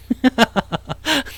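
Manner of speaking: high burst of laughter. Real, not acted. Streamer insisting on being a Seoul native, bursting out laughing. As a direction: burst out laughing at your own claim. Cracks up claiming Seoul origin.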